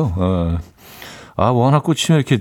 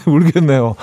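usual speaking voice

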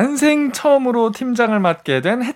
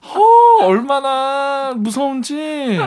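mock fear; 6 semitones higher, much slower than usual. Mock fear about junior.

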